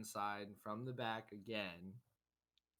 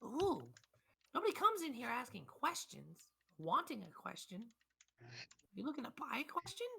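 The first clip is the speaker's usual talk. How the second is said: put-on cranky old shopkeeper; 11 semitones higher than usual. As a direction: bark at the adventurers like a fed-up old codger. Shopkeeper keeps talking.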